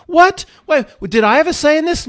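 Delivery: high, rushed alarm; alarmed little soul. Acted. Little Matt panics before departure.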